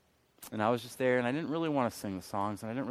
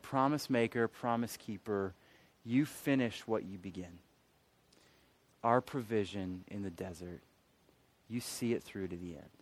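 soft, slowing reverent delivery; hushed recital; 3 semitones lower, 5 dB quieter than usual. Retold or imitated. Speaker recalling the song that reached him, hushed recital. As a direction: recite the lyric softly, with long pauses.

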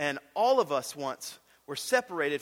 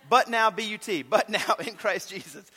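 cracking up through the verse; laughing; 3 semitones higher, 3 dB louder than usual. Real, not acted. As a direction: laugh while reading it. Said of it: "I'm sorry, I'm a mess".

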